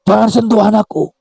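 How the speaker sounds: high-pitched possessive cry; shouted warning. A narrator's reading. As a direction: cry out to keep hands off the baby. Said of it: "teriak Tuti".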